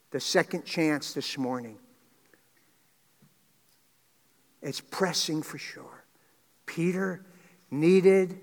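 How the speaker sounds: earnest public prayer in measured phrases; closing prayer. Real, not acted. Pastor thanking the Father on Easter morning, earnest prayer. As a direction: pray aloud with pauses between phrases.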